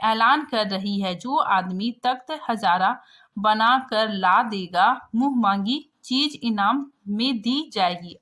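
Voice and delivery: steady classroom reading of the passage; story reading. A narrator's reading. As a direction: read the story text out for students. Reads the story text aloud. (कहानी पाठ)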